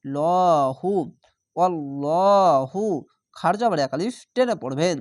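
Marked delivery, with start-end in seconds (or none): 1.6-2.8 অল্লাহু slow and full with thick lam; heavy Allahu. Shown as a demonstration. Teacher recites the heavy form for students, slow chant. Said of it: "মোটা করে পড়তে হবে".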